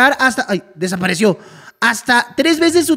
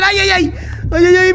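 panicked ay ay ay; 5 semitones higher than usual. Real, not acted. Gamer spotting the monster, panicked yelping. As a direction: yelp in panic.

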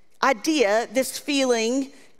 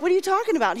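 incredulous disciples; 6 semitones higher, much faster than usual. Retold or imitated. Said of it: "The disciples are like".

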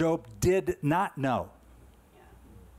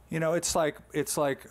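usual speaking voice

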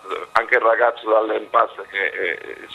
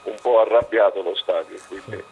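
voice giving out. Real, not acted. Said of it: "Scusate per la voce".

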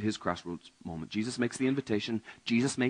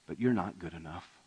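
love them while naming the gap; Jesus tenderly telling the rich man one thing remains; loving rebuke; 3 semitones lower than usual. Acted. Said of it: "Jesus says".

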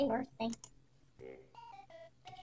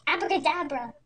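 magic shout; 3 semitones higher, 8 dB louder than usual. Acted. Baby sister casting a spell.

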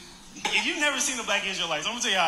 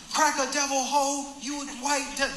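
ranting street preacher; 7 semitones higher than usual. Retold or imitated. Main preacher going off on passers-by, mock rant. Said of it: "going off on white people the loudest".

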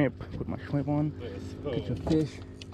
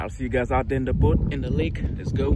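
hyped up; 3 semitones higher, 7 dB louder than usual. Real, not acted. Hyped sign-off to viewers.

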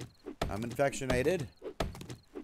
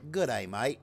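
lightly Australian greeting; attempted Australian accent. Shown as a demonstration. Streamer wanting a one to ten score, attempted Australian accent. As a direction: offer an Australian accent for rating. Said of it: "that shit sounded Australian".

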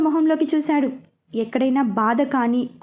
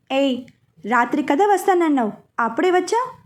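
flustered. Acted. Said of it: "అని అడిగింది కంగారుగా".

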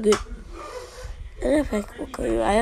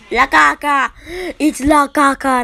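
shrieking jackpot winner; 3 semitones higher, 7 dB louder than usual. Real, not acted. Big pull reaction.

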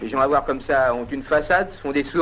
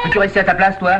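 louder, slightly raised rebuke; scolding grandfather; 3 semitones higher, 5 dB louder, faster than usual. Acted. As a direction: tell off an interrupting grandchild. Grandfather scolds the interrupting child.

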